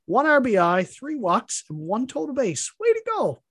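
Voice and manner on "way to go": sarcastic praise. Acted. Sarcastic praise for a bad player.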